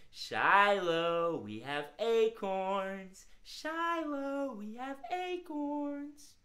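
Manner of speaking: slow, gentle offering; sweet coaxing voice. Shown as a demonstration. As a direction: tempt a squirrel with acorns.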